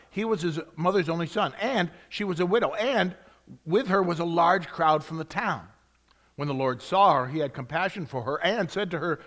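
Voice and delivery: eager storytelling, every "and" leaned on; a hint of breathless wonder, stressing each "and"; breathless excited reading. Shown as a demonstration. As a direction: read it like an excited child telling news. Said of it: "And I'm gonna emphasize it that way".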